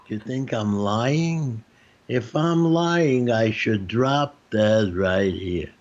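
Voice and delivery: slow, drawn-out Jewish relative swearing; slow Jewish storyteller swearing it's the truth. Retold or imitated. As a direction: lean hard on every word, like a Jewish relative swearing. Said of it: "When Jewish people tell a story".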